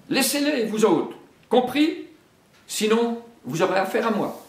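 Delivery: high, loud warning to the monkeys; threatening bear. Acted. Baloo charges the monkeys and threatens them, loud. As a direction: warn them off, fast at the end.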